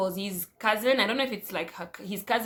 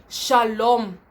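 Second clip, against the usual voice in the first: a lightly voiced sweet hello, a touch louder; mock greeting; 6 dB louder than usual. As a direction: greet with a hint of put-on innocence. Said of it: "She's like".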